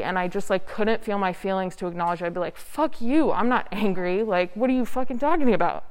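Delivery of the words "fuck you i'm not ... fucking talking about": retold angry denial. Snapping back at people who call her angry, retold mild anger. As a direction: act out an indignant comeback, half in earnest.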